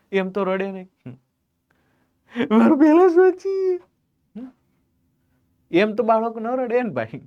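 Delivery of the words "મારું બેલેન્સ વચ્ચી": higher, louder put-on whimper; teacher mocking a teen crying over phone balance; hammed-up tearful complaint; mock whiny teen. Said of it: "રડતો હોય".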